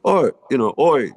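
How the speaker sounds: a quick half-done Manchester greeting; hint of Manchester accent. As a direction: Liam greeting him in a light Manchester accent. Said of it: "I don't wanna do the accent".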